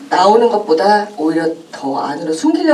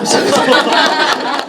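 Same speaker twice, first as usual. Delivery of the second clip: short burst of real laughter; 9 semitones higher, 5 dB louder than usual. Real, not acted. Actor laughing at the host's remark, real laugh. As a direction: laugh out loud, unforced.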